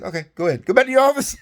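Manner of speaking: the general sending him back, mock voice with a laugh; imitating the general. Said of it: "He goes".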